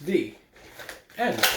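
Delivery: reading a picture book aloud to the class; even, steady storybook reading voice; story narration. Acted. Teacher reading the story to her students, storytelling voice.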